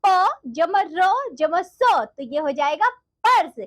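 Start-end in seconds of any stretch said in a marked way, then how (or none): 0.1-1.8 letters spelled out slowly one by one; slow sounding out. Shown as a demonstration. Teacher slowly spells the letters for the children. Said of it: "यहाँ देखो बच्चों".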